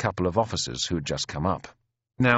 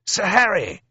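high, loud, hearty hail; Speedy's roar of greeting; 12 semitones higher, 5 dB louder than usual. A narrator's reading. Huge bearded officer hailing his friend, roaring. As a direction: bellow the name in amazed delight. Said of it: "a roar of greeting".

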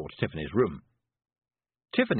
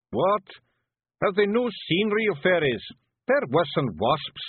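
high, rough little Scottish pictie, gently; a tiny Scots warrior breaking bad news; Feegle voice; 9 semitones higher, 5 dB louder than usual. Big Yan indignant.

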